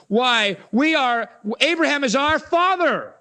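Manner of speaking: a hint of proud Pharisees; indignant Pharisees. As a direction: puff up with ancestry. Pharisees protesting.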